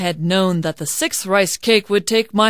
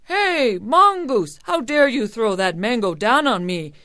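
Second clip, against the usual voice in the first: louder, higher, scolding callout; indignant cry; 4 semitones higher, 5 dB louder than usual. A narrator's reading. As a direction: call the culprit to account. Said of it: "Kabayan cried".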